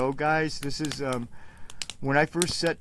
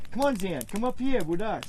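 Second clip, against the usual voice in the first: higher, coaxing call; calling the dog; 6 semitones higher than usual. Real, not acted. Owner calling Zan to join them, higher coaxing call. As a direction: coax the dog to come over.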